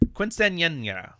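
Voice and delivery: quinceañera said slowly, syllables dragged; careful attempt. Shown as a demonstration. Podcaster giving the Spanish word another go. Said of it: "I know I'm not pronouncing it right".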